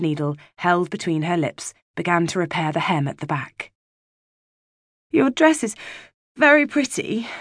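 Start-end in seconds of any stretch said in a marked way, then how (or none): 5.1-7.3 shuddering breaths. Acted. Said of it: "between shuddering breaths".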